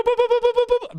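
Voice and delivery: very high, rapid notification boops; alert beeps imitated. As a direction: mimic a phone pinging nonstop. Imitating rapid phone alert sounds.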